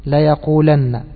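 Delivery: ليقولن with the lam in لي clearly opened, a fatha; teacher spells out ليقولن with an open lam sound. Shown as a demonstration. المعلم ينطق ليقولن بفتح اللام بوضوح. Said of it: "بفتح اللام".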